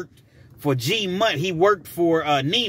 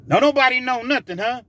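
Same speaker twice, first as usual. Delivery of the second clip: menacing interrogation; 10 semitones higher, 5 dB louder than usual. Retold or imitated. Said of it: "he was like".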